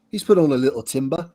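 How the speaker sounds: a faint, lightly put-on British accent; terrible British accent. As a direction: slip into a half-hearted British accent on the last words. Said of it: "that was my terrible British accent".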